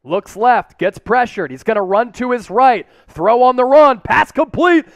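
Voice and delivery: calm call rising to an excited shout; play-by-play, building up. Real, not acted. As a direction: build from the snap to the big catch.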